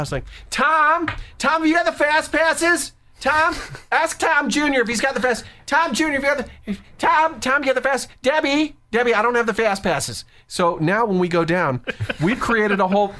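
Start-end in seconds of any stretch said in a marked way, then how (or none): 0.5-10.2 very high, yelling tourist-family voices; loud obnoxious family. Retold or imitated. Disney family hollering about Fast Passes, mock loud and obnoxious. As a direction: call out across the park, pitched way up. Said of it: "but they were so loud".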